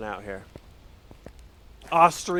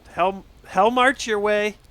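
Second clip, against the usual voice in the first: teasing; 9 semitones higher, 7 dB louder than usual. Real, not acted. Teasing a viewer leaving stream.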